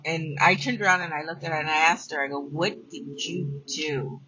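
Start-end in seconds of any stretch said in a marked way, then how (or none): 2.4-4.2 slow, stern scolding question. Retold or imitated. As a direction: ask it like a partner who caught someone in trouble. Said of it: "somebody getting in trouble".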